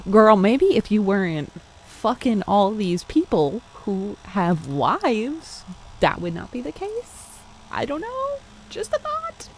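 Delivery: roast the heroine under your breath; sassy aside. Real, not acted. Reader teasing the character mid-story, sassy and amused.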